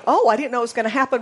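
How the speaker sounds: fast, laughing fake surprise; hammed-up little shock; mock surprise. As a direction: toss off a silly gasp of surprise. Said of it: "Not surprised like".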